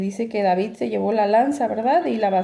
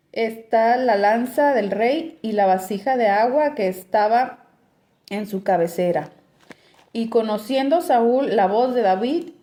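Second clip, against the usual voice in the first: scripture reading. Acted. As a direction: read the passage out to the congregation. Reads scripture passage aloud. (lectura bíblica en voz alta)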